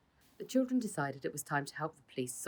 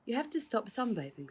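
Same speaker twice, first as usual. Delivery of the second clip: raised voice, higher and louder; calling out; 8 semitones higher, 3 dB louder than usual. A narrator's reading. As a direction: call him awake across the garden. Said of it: "said Father".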